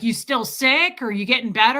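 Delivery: loud mock bluntness; unpolished vet. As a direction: quote a tactless vet firing questions. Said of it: "very unpolished".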